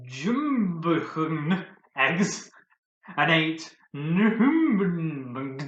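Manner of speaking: bleating like a goat; slow, wavering goat bleat; goat impression. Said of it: "without the stupid goat impression".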